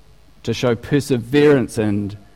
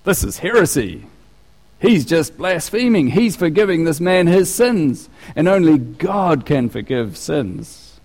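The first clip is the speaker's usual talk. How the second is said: higher, indignant objection, slowing at the end; outraged experts; 4 semitones higher than usual. Retold or imitated. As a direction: protest it as scandalised teachers of the law. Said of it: "these other experts are going".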